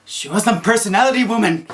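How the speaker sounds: sarcastic remark. Retold or imitated. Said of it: "And I'm like".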